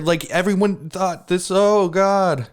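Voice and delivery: high, laughing. Real, not acted. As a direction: laugh through the words.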